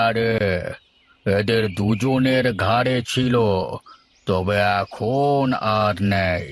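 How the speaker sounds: a village healer's slow, grave pronouncement; lightly voiced healer, drawn-out and solemn; slow kabiraj. Healer explains spirit gone. (ধীর গম্ভীর কবিরাজের কণ্ঠ)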